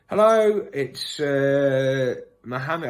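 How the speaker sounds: chirpy fake caller introducing himself; put-on caller voice. Shown as a demonstration. Prank caller giving a fake name, lightly put-on voice. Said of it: "I probably wouldn't go with Mohammed".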